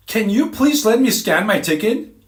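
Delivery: loud, high-pitched exasperated request; irritated demand. Retold or imitated. Acts out irritated woman's demand.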